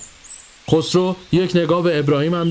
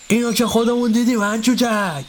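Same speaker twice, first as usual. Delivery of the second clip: higher, snappish master cutting in; irritated old master; 8 semitones higher than usual. Acted. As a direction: cut him off with annoyance. Narrator: با عصبانیت.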